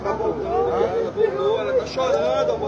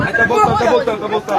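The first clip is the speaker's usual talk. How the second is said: loud, breathless repeated cry of relief; urgent shout; 3 semitones higher, 6 dB louder, faster than usual. Real, not acted. Relative calling out the baby is coming back, urgent shout. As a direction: shout it over the chaos, desperate hope.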